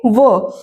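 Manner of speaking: 'va' repeated on its own; phonic V sound. Shown as a demonstration. Teacher repeating the drill answer, isolated 'va'. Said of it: "क्या पढ़ोगे?".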